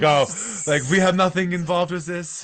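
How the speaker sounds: high, innocent neutral voice; neutral Switzerland. Retold or imitated. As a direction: play the innocent bystander, high-pitched. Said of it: "R C Cola was trying to act like Switzerland".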